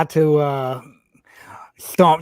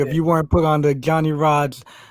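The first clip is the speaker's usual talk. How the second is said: ordinary talk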